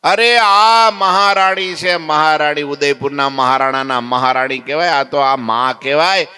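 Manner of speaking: angry scolding. Retold or imitated. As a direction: lay into them, outraged. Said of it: "મહારાજ ખીજાણા".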